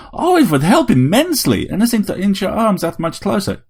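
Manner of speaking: high-pitched, sardonic vampire robot; taunting vampire robot. A narrator's reading. Vampire robot invites Harry to come closer, taunting.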